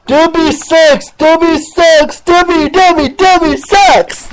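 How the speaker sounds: lightly mock his squeaky taunt; mock chipmunk voice. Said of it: "He sounds like a dang chipmunk".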